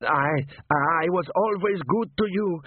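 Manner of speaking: high, slow, faltering plea; shaking with fear. A narrator's reading. Butcher to the golem holding a cleaver, shaking with fear. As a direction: stammer it high, pleading. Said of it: "Sock began to shake".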